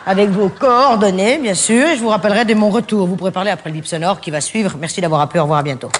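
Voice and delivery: a plain, polite recorded greeting; formal voicemail read; classic voicemail greeting. Shown as a demonstration. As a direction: read it neat and proper. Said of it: "je vais faire le classique, le traditionnel".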